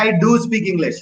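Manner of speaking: emphatic "do" before "speak English"; stress on DO. Shown as a demonstration. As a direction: give "do" the main weight. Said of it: "emphasizing something".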